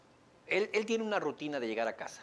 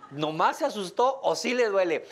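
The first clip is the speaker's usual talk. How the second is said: mother asking herself, louder and higher; anxious mom listening for pain; worried mother; 6 semitones higher, 7 dB louder than usual. Retold or imitated. A mother at the party hears her child fall and calls out her worry. Mother judging baby's cry.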